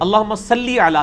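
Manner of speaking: صلی said slowly with a doubled lam and a clear long i, as in lee; correct Arabic pronunciation. Shown as a demonstration. Teacher correcting a guest's recitation of durood, slow precise صلی. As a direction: stretch صلی out slowly, lam pressed, ending in a pure lee. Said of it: "لام سے لی ہوتا ہے".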